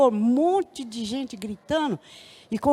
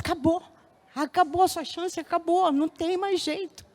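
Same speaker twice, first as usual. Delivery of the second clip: despair; 5 semitones higher than usual. Retold or imitated. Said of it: "num desespero".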